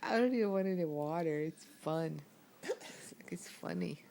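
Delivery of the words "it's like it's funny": soft unvoiced whisper; just breathe the words. Real, not acted. Quietly giggling, hiccuping.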